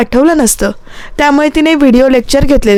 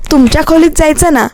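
तुमच्या pointedly emphasised in a quick, higher line; stress on तुमच्या; 5 semitones higher, faster than usual. A narrator's reading. Sister teasing brother about the couple's room, stress on तुमच्या. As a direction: lean teasingly on the word तुमच्या. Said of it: "या शब्दावर जोर देत अन्वी बोलते".

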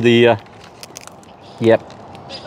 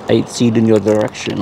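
lower, half-hearted attempt at French accent; failed French accent; 4 semitones lower, faster than usual. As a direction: try a French accent and barely manage it. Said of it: "can't even say it in Fr".

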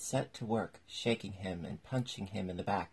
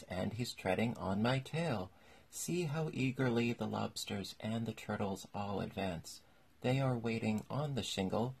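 lilting, rhythmic poem reading, slightly raised pitch; verse recital; 2 semitones higher than usual. A narrator's reading. Mock Turtle's song to Alice while dancing, rhythmic verse recital. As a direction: recite it in an even, singsong metre.

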